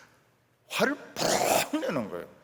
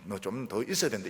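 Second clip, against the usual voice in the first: kind encouragement; 5 semitones lower than usual. Pretend. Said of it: "이렇게 하지 않고".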